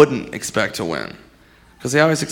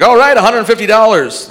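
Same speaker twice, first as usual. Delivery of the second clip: fake excitement; 8 semitones higher, 5 dB louder than usual. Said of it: "They're like".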